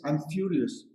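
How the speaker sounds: furious said firmly, falling; stress on furious. Shown as a demonstration. Giving the student the better word, stressing furious. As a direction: land on furious with a clean fall. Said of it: "the better word to say is".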